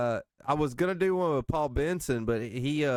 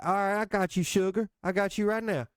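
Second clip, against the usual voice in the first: higher-pitched retelling of a friendly server; imitating the waitress; 8 semitones higher than usual. Man recalling a gas station server calling him sugar, higher imitation. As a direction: lift the voice for the sweet counter lady.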